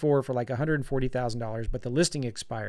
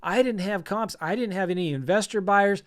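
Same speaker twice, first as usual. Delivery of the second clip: freaking out; 4 semitones higher than usual. Retold or imitated. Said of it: "Now I'm freaking out. I'm hyperventilating".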